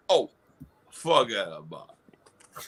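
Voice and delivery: slow, low Italian-American drawl; Goomba accent. Acted. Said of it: "the chat's saying you're a Goomba".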